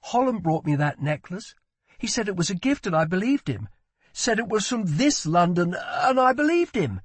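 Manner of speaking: high voice, building in anguish; remorseful prince berating himself; distressed prince. A narrator's reading.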